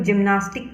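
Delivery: जिम्नास्टिक opening on a J sound; soft G. Shown as a demonstration. Teacher reading gymnastic for learners, soft-G pronunciation. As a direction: say जिम्नास्टिक with J, not G. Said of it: "तो इसका pronunciation हम लोग".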